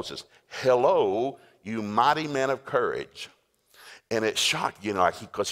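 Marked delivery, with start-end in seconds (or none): 0.6-3.3 called out loud, then stretched slow; mock yell. Angel calls down to hiding Gideon, mock yell. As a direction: hail someone down in a hole. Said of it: "He yelled down in the hole".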